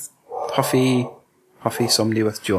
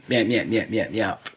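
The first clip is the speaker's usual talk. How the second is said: Daggett; 4 semitones lower, 6 dB quieter than usual. Acted. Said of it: "sort of Daggett giving".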